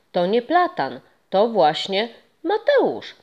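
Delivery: lightly voiced ghost, slow deliberate reveal. Ghost revealing the tree's secret to the boy, slowly. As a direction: savour the secret.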